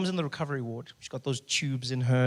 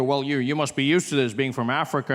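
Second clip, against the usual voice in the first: locals teasing; 2 semitones lower than usual. Retold or imitated. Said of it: "they go".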